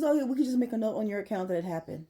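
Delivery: quick, casual agent brushing it off; breezy agent. Retold or imitated. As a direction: toss it off like it's nothing. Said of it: "So he says".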